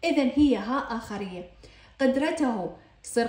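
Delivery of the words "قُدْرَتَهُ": قدرته said qudratahu, ending tahu; voweled h ending. Shown as a demonstration. Teacher showing the constant h, قدرته ending in tahu. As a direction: end قدرته on ta-hu. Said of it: "عند التحريك في جميع الأحوال لفظت هاء".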